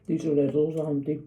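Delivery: talking through a mouthful; words round a bite of food; mouth full. Real, not acted. Vlogger tasting food while chatting to viewers, mouth full. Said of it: "Sorry for talking with my mouth full".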